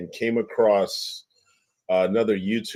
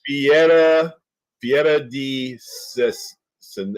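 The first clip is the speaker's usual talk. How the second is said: Italian pronunciation; 3 semitones higher, 3 dB louder, slower than usual. Real, not acted. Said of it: "that's the French Chicago accent".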